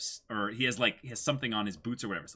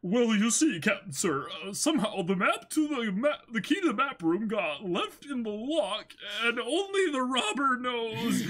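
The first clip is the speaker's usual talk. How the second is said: higher, louder, jittery henchman voice; nervous crewman; 14 semitones higher, 4 dB louder than usual. Acted. Crewman explains lost map to captain: higher nervous henchman. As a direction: grovel to the captain with excuses.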